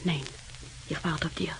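hushed whisper so no one hears; late-night secret whisper to her sister. Acted. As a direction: keep it under your breath.

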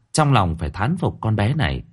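ordinary talk, nothing marked

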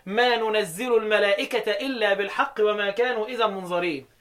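n first and "zi" in ننزل; nun reading of ننزل. Shown as a demonstration. Teacher recites Hafs's reading, ننزل as nunazzilu. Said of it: "حفص وحمزة والكسائي يقولوا إيه؟".

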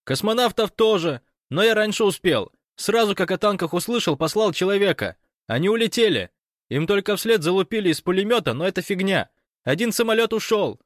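high, loud breathless report; excited Fyodor on the phone. Acted. Fyodor reporting the invasion to Gosh by phone, excited. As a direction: rattle it off, caught up in the drama.

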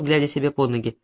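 ordinary delivery, nothing marked

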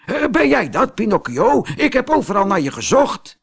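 high, bright bird voice calling out; a dove who finally found the boy. A narrator's reading. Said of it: "riep de duif".

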